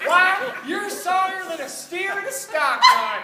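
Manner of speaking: mocking insult. Stepbrother mocks Bubba.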